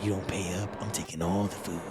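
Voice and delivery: low, gruff mob-boss rat. Acted. Rat boss bossing the adventurer, low and gruff. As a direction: lean into the rat boss, threatening.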